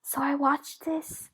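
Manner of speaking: whispered conspiratorial report; imitating Dan. Dan whispering true-crime news to her in the kitchen. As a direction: whisper the gossip like a secret. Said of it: "he'll be like".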